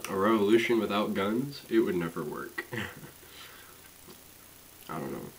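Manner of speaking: chewing while talking; mouth full. Real, not acted. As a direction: talk through a mouthful. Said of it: "I've been chewing with my mouth open".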